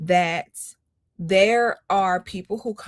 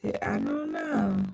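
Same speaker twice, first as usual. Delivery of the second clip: distorted, low, warped stream audio; broken mic, voice dropping out; glitchy audio. Real, not acted. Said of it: "is it not sounding good".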